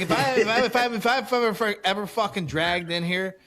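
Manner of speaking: worked-up retold rant, tripping over words; pissed off. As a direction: re-enact sputtering with outrage. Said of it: "I'm pissed off at this moment".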